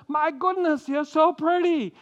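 lightly voiced, a touch of awe; Abraham admiring wife. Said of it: "he looks at her and he says".

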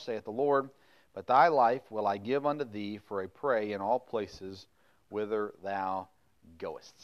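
solemn, measured Bible reading; scripture reading. Acted. Pastor reads scripture passage.

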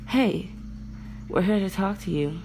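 imagined greeting. Retold or imitated. Wished-for friendly opener, acted.

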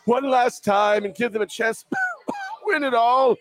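slow self-pitying Ben voice; hammed-up retiring quarterback; mock farewell speech. Playing Big Ben farewell.

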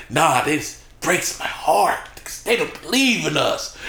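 slow, dead-serious mock heartbreak; imitating a music artist. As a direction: imitate a solemn complaint, drawn out. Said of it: "like, dead serious".

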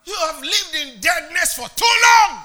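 loud, impassioned preaching. Acted. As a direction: preach it with full force. Shouted climax of sermon.

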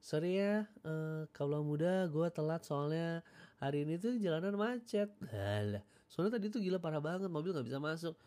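high, whiny hammed-up radio host apology; mock whiny excuse. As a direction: play the late DJ fishing for sympathy. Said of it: "tapi kasih excuse".

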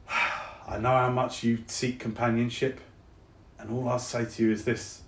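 softly spoken South London; South London accent. Acted. Soldier comforts departing friend, South London accent. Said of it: "my accent has gone all South London".

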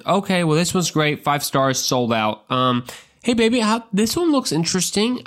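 high, slow, upbeat salesman voice; Joseph scrolling rentals. Retold or imitated. Joseph reading rental listings to Mary, high and falsely upbeat. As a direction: talk it up to cover a bad pick. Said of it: "And then he starts looking".

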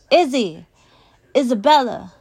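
high, loud frantic call; parent's urgent, high-pitched shout; shouting her name. A narrator's reading. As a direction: shout for a runaway child. Parents spot runaway child, call her.

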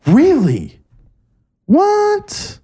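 high-pitched disbelief, rising sharply; shocked that he never watched him; incredulous. Real, not acted. Friend hasn't watched the creator.

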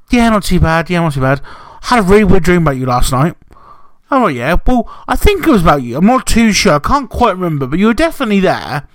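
a hint of a vague, rambling partner; imitating Jay. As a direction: lightly mimic a partner recounting a dream. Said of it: "I'm gonna do an impression of Jay".

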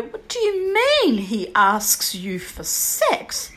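slow, laughing question; disbelieving question with a laugh; laughing disbelief. Retold or imitated. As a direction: ask it through a laugh, unable to believe it. Asking mother-in-law in disbelief.

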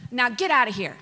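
firm, mildly stern dismissal; acted-out curt command after disciplining; mock parental scolding. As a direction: send them off like a fed-up parent. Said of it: "You talk like that to your kids".

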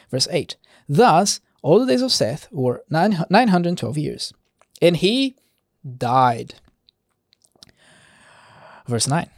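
measured verse-by-verse Bible reading; scripture reading. Acted. Preacher reading Genesis genealogy to listeners, measured scripture reading. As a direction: read the genealogy aloud, deliberate on each closing phrase.

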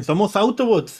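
squeaky robot claim, hands up; mock tiny robot voice; mini Transformers. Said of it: "los mini Transformers dicen".

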